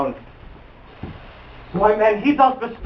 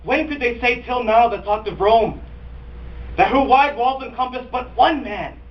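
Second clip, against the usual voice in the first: raised-pitch, rhetorical outrage; acted indignation; 5 semitones higher than usual. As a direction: build a stage tirade of indignant questions. Cassius indignantly rebukes Rome.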